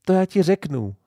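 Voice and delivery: high, bright with delight; joyful. A narrator's reading. Little girl gleefully telling her playmate, joyful and high. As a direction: burst out happily, pitched high. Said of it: "zaradovala se maminka".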